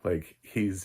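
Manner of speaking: normal talking voice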